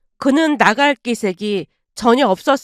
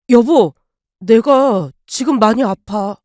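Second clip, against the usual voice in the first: pleading cry; 2 semitones lower, slower than usual. Acted. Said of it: "애원하듯 외쳤습니다".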